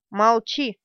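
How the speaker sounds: a loud barked order, voice up; sharp command. A narrator's reading. Kahlan silences kneeling Richard with a loud command. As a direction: snap the order down at him. She raises fist, commands.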